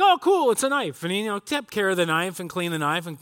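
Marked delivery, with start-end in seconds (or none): 0.0-1.0 a higher, louder "oh, cool" about the gift; mild mock delight. Friend gets a knife from a buddy, higher, lightly excited. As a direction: act pleased with the knife. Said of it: "he's like".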